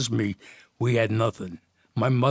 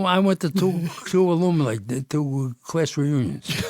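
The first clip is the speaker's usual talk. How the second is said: laughing; 6 semitones higher, 4 dB louder than usual. Real, not acted. Laughing over reunion story.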